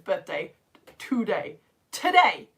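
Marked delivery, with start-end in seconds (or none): 1.9-2.5 higher, louder, falling in surprise; surprised. Real, not acted. Teacher learning it is a pupil's birthday, surprised. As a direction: repeat it with rising astonishment. Repeats birthday news, escalating disbelief.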